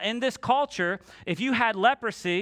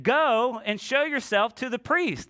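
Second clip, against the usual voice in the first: higher, drawn-out call back; slow call across a distance, only mildly raised; yelling back; 4 semitones higher, slower than usual. Acted. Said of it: "He yells back at him".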